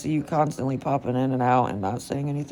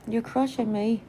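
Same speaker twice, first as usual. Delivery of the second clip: strained, pained; 9 semitones higher than usual. Real, not acted. Dog lying on her.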